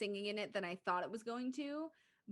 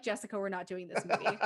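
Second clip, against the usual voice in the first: laughing. Retold or imitated. Imagined text from friend, laughing.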